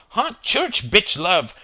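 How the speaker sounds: high, loud, drawn-out shout. A narrator's reading. Chris topping Gerald's suggestion, shouting. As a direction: shout it as a gleeful topper. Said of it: "shouted Chris".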